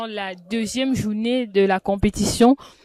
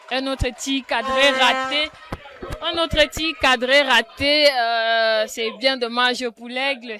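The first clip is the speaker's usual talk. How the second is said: lively match commentary, raised voice; excited sports commentary; 3 semitones higher, 3 dB louder than usual. Real, not acted. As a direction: call the miss like live football. Live play-by-play after missed shot.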